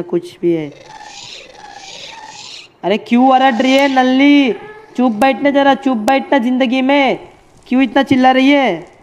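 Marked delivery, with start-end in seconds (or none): 2.8-8.9 scolding. Real, not acted. Scolding someone shouting nearby.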